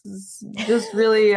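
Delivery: yawning and clearing throat; struggling through a yawn. Real, not acted. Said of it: "I'm clearing my throat and yawning".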